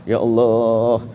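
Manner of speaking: forced prayer through anger. Shown as a demonstration. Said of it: "Masih marah dia sebetulnya".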